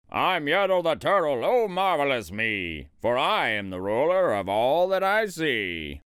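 mildly proclaimed royal boast; exultant boasting. A narrator's reading. Yertle lists his kingdom from the sky, exultant. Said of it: "shouted Yertle".

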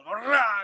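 imitated growling yell with a trilled R; rolled-R war cry. Gangsters coming through the bushes, imitated rolled-R yell. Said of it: "rolling their R's".

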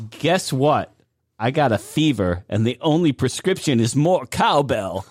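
lightly hinted celebrity delivery; understated impression with small pauses; Christopher Walken. Shown as a demonstration. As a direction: read the line with a touch of odd phrasing. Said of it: "Christopher Walken".

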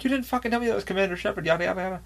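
blurting it out to a friend in disbelief; excited. Retold or imitated. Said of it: "I fucking lost my shit".

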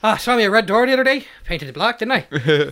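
lightly hammed Irish storyteller; mock Irish accent. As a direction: put on a comic Irish accent. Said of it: "that would be an Irish song".

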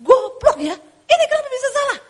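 angry boss yell. Retold or imitated. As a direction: snap at the clerk in a rage. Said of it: "Kalau dulu dia ngamuk".

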